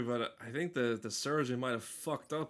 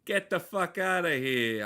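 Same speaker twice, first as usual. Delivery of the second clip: put-on loud, brash New York accent; 4 semitones higher, 5 dB louder than usual. Streamer shooing off the chat in a loud New York accent. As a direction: bark it like a New York cabbie. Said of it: "Doing fucking New York accent".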